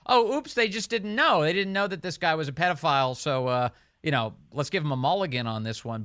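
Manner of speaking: mocking excuse.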